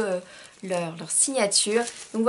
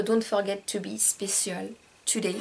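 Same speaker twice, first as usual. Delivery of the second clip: French accent in English. Real, not acted. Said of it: "Désolée pour mon accent".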